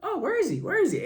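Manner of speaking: a quarterback hunting for his receiver, hammed up; mock Russell Wilson. Russell Wilson backs up and looks for Sutton, mock-frantic. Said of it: "he goes".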